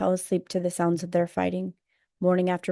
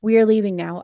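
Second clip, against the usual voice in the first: hysterical; 2 semitones higher, 6 dB louder than usual. Retold or imitated. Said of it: "My mother is hysterical".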